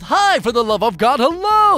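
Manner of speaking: loud, rising to a high hello; exasperated greeting. Retold or imitated. Opening a conversation, loud exasperated hello. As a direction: fling out the hello.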